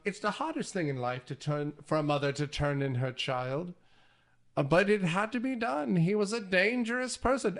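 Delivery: lightly voiced old mother; a hint of an old woman's voice; Norman's mother. Mother turning in her own child, lightly voiced old woman. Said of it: "the voice is not Norman anymore. It's the mother".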